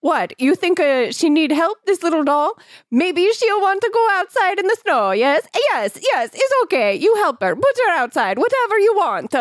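high hammed-up Italian accent; mock Italian shopkeeper. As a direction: squeak it out like a cartoon Italian grandpa. Long Partini riff.

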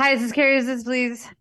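high, run-together phone greeting; breezed through. Retold or imitated. Kid made to repeat the phone greeting, rushing it. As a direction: recite it quickly like a hated chore. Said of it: "I'd have to say it again".

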